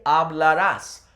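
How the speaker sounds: hablarás with stress on the final -rás, slow; wrong stress. Shown as a demonstration. Teacher warning students off the future-tense stress. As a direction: hit the end of hablarás. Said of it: "Don't say".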